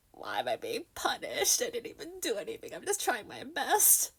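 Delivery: plaintive little protest to oneself; hammed-up poor-me complaint; mock self-pity. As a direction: whimper it, playfully wronged. Acted self-pity facing the wall.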